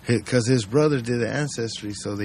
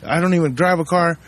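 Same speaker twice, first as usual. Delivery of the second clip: protesting suspect; 5 semitones higher than usual. Retold or imitated. Suspect denying to police.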